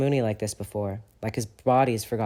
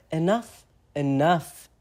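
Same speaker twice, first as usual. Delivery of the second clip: giggling; 6 semitones higher, 4 dB louder, slower than usual. Acted. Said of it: "Regulus giggles".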